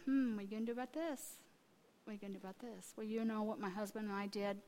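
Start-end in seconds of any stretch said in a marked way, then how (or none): 0.1-2.9 soft, gentle question, trailing quieter; loving, gentle prompting. Retold or imitated. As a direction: nudge tenderly, very softly. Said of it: "the Lord is lovingly going".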